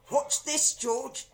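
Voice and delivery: high, loud excited call; shouting. A narrator's reading. Husband shouting to George. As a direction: shout it gleefully. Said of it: "Mister Cranky shouted".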